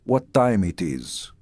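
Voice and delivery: put-on slow, careful "What time it is?" in a thick foreign accent; heavy immigrant accent. A new immigrant boy asking the time, thick foreign accent. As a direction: mimic his young self's broken English, unhurried. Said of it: "I still sounded like Latka".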